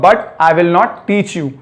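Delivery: said very slowly, word by word; slow demo. Shown as a demonstration. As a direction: model it slowly for students. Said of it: "teacher models the sentence". (धीरे-धीरे साफ़ बोलना)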